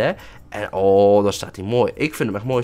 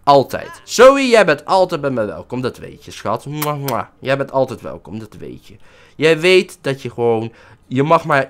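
mock tender; 3 semitones lower than usual. Sweet talk to girlfriend Zoe.

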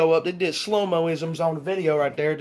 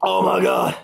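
amazed outburst; 6 dB louder, much slower than usual. Real, not acted. Reacting to the dog drinking.

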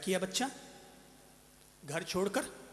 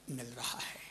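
whisper; 10 semitones lower, 17 dB quieter than usual. Real, not acted. Sermon aside, dropped to whisper.

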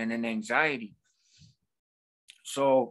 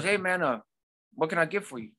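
put-on teen cashier; 4 semitones higher than usual. Voicing teen Subway worker.

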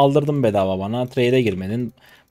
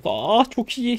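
pleased surprise; 13 semitones higher, much slower than usual. Real, not acted. Streamer seeing a lucky chance in the game, pleasantly surprised. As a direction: squeal it lightly, pitch jumping way up. Pleased reaction during play.

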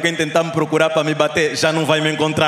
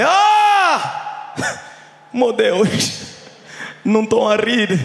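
waking in panic; 8 semitones higher, much slower than usual. Retold or imitated. Comedian waking from his bad dream, mock panicked cry. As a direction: jolt awake from a nightmare, horrified. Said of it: "Sempre acordei".

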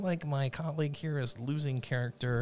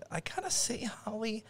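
whisper; 7 semitones higher, 5 dB quieter than usual. Real, not acted. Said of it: "whispered aside".

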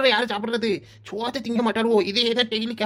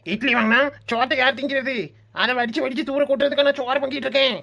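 higher-pitched, indignant stepmother's scolding; angry scolding; 4 semitones higher than usual. Acted. சித்தி இட்லி கேட்டதற்குத் திட்டுகிறாள். (எரிச்சலோடு திட்டும் குரல்)

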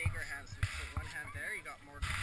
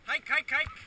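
dog sled musher; 8 semitones higher, 12 dB louder, much slower than usual. Real, not acted. Musher calling sled dogs.

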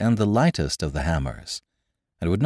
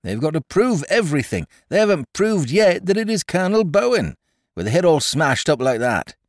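much higher, louder, meddling zeal; officious excitement; 11 semitones higher, 4 dB louder than usual. A narrator's reading. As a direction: gabble it with busybody zeal. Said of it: "in officious excitement".

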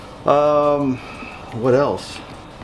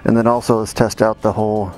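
putting helmet on. Real, not acted. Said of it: "I put a mic inside the helmet".

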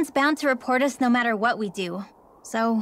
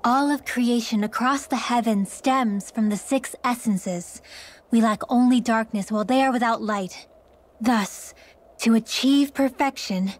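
muttered incantation; 2 semitones lower than usual. Acted. Mage practicing a magic incantation alone, muttered chant. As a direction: recite a magic incantation to yourself. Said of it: "What are you muttering over there?".

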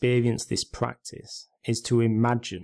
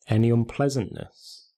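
measured meditation guide, long pauses between phrases; guided meditation. Real, not acted. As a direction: gently guide listeners into stillness, leaving space after each instruction.

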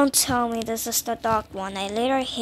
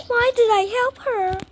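higher exasperated repeat with stress on did; 9 semitones higher, 3 dB louder than usual. Real, not acted. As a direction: whine it again at yourself, stress on "did". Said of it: "repeat with different tune".

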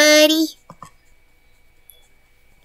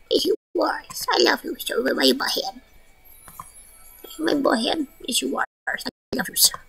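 tender; 8 dB quieter than usual. Real, not acted. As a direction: whisper love to the pet. Tender pet talk.

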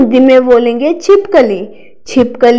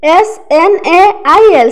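spelling out letters; 3 semitones higher than usual. Shown as a demonstration. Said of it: "next word है स्नेल".

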